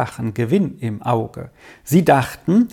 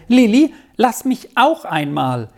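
eager request; 7 semitones higher, 3 dB louder than usual. A narrator's reading. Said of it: "und sagte".

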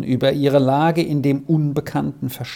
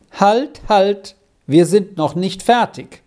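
higher, lightly raised call; 6 semitones higher, 4 dB louder than usual. A narrator's reading. Professor stops Squirrel from leaving, calling out. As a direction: call the child back, mildly urgent. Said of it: "rief der Professor".

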